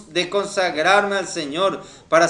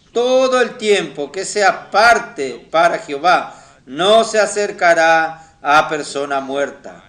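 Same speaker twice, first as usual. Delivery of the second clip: scripture reading; 4 dB louder than usual. Acted. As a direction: read the verse out phrase by phrase, drawing out key words. Reads Numbers verse aloud to congregation. (lectura bíblica solemne y pausada)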